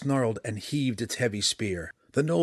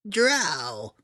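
raspy, higher creature cry; rasping gnoll voice; 6 semitones higher, 4 dB louder than usual. A narrator's reading. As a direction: rasp it out like a frightened beast. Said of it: "it rasped over and over".

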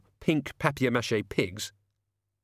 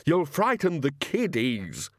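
mock scream, drawn out and higher; 4 semitones higher, slower than usual. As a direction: wail it slowly in alarm. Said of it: "he screamed".

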